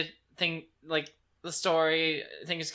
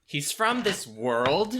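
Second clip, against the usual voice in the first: slow, deliberate; much slower than usual. Acted. Slow dramatic aside.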